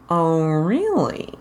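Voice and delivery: slow, sly grin in the voice; slow smiling insinuation; sly toothy smile. Acted. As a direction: leer a little. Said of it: "he smiled, showing his teeth".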